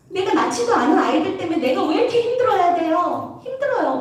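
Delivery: lightly acted exasperated appeal; aggrieved lament. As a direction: complain to God of an unfair burden. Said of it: "모세가 이렇게 하소연을".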